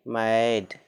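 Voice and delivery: मैड said with open ae vowel, maid; teacher's model word. Shown as a demonstration. Teacher models मैड for students, open vowel. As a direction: say मैड with a broad ae. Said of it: "जैसे एम ए डी".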